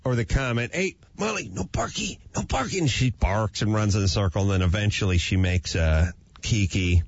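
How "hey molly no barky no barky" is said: put-on higher, softer coaxing baby talk; baby talk to dog. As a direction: coax the dog gently. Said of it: "I say".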